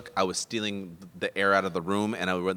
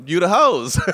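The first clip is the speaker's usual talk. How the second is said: laughing quote; 9 semitones higher, 11 dB louder than usual. Retold or imitated. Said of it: "He goes".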